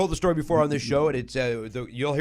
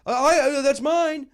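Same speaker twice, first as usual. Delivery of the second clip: higher, louder startled mimic of the woman; mimicking the woman; 10 semitones higher, 5 dB louder, slower than usual. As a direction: play her flustered and caught out. Imitating defensive woman.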